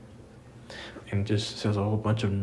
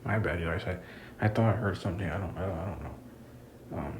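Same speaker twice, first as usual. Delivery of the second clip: talking low; 4 semitones lower, 5 dB quieter than usual. Real, not acted. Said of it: "That's why I'm talking low right now".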